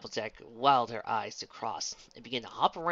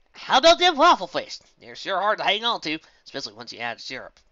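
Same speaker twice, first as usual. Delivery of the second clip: put-on higher, louder country-girl voice; country pony explaining; 7 semitones higher, 14 dB louder than usual. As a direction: explain your trick with rustic confidence. Applejack's country voice.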